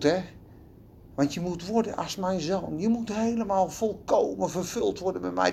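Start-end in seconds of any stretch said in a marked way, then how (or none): none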